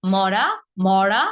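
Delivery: "মরা" first with a light r, then a pressed retroflex r; tap-then-flap contrast. Shown as a demonstration. Teacher drilling the two r sounds, contrasted. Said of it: "পার্থক্য কিন্তু অবশ্যই আছে".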